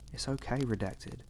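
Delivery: hushed, mildly cheerful reassurance; softly cheerful. A narrator's reading. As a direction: quietly soothe with a touch of cheer. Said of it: "He said it so cheerfully".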